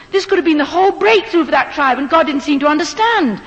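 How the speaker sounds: arguing with God in despair; anguished prayer. Retold or imitated.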